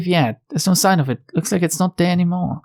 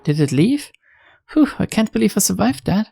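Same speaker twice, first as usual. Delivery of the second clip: lightly voiced scared heroine, a bit higher; nervous game heroine, mildly shaken; frightened young investigator talking to herself; 5 semitones higher than usual. Plays heroine voice.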